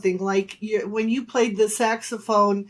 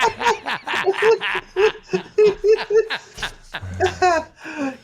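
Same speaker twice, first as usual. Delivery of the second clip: laughing; 11 semitones higher, 4 dB louder than usual. Real, not acted. Mom laughs at the joke.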